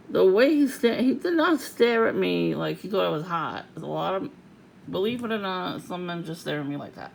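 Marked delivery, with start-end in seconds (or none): 0.1-3.7 louder, emphatic and indignant; loud insistence. Real, not acted. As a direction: hammer home he wasn't flirting. Insisting angrily.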